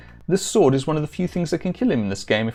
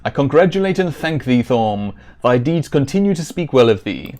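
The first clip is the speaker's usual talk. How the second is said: louder, regal king's reading; reading Lord British; 5 dB louder than usual. Acted. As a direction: proclaim it like a grateful king. Reads Lord British's dialogue aloud.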